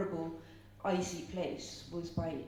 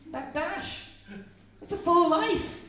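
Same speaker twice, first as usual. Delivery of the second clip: higher and louder, urging; impassioned; 9 semitones higher, 6 dB louder than usual. Real, not acted. Speaker urging the audience that life is short, impassioned. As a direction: press the point with passion.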